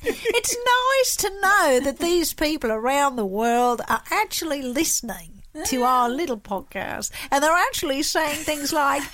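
hammed-up, nasally Australian accent; nasal Aussie accent. Host thanking a listener in a put-on nasal Aussie accent. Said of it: "a little bit of the nasally thing".

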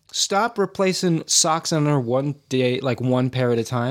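talking through a mouthful of nuts; mouth full. Real, not acted. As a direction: say it round a bite of food. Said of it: "you got a mouthful of food".

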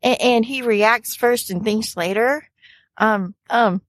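hesitant excuse full of restarts; nervously placating, halting speech; flustered fumbling. Acted. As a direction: stammer through an awkward explanation. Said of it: "she's fumbling over her words".

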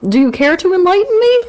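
high, slow laughing question. Real, not acted. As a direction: laugh through the words. Laughing at archaic phrase.

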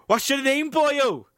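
high, loud Welsh officer's voice, hammed up; a comic Welsh accent, sing-song and pushed high. Welsh accent for a border officer questioning Barry. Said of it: "performing their dialogue in a Welsh accent".

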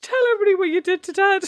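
high, laughing through words; giggling as she speaks. Real, not acted. Laughing request.

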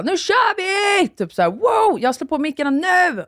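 bursting in high and loud, all excited; super happy. Retold or imitated. Host bursting into the studio, thrilled to start recording. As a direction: rush in beaming, full of energy. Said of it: "men ändå skitglad och bara".

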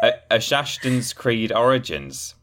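slow title reveal with laughter breaking in; fighting laughter. Real, not acted. Second try at announcing the spoof game, fighting laughter. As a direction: push through the punchline while laughing. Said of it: "tried to get through that without laughing".

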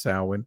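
"Samhain" said SOW-in; proper pronunciation. Shown as a demonstration. Host teaching the proper name, "Samhain" as SOW-in. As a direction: pronounce "Samhain" as SOW-in, no m sound. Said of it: "supposed to be pronounced".

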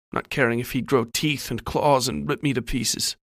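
ordinary delivery

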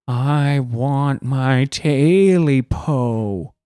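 very slow, eerie drawn-out monster voice; creepy creature voice. Retold or imitated. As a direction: stretch it out like a ghost in the dark. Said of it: "I hear this voice say".

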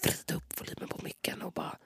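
very soft build-up in a whisper. Pretend. Fed up with whisper room, whispering. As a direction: whisper it, holding back the outburst.

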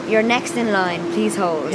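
slow, mock recorded hold message; phone menu voice. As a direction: imitate a slow automated phone line.

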